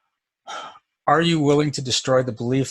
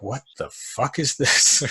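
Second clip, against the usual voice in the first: stunned disbelief; slower than usual. Retold or imitated. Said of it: "And I was just like".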